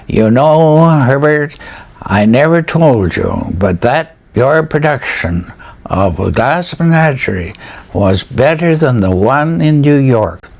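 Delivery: lightly put-on Maritime accent, a touch of the novelist; Hugh MacLennan's maritime accent. Novelist praising Herbert's production, in a mild Maritime accent. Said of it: "in his maritime accent".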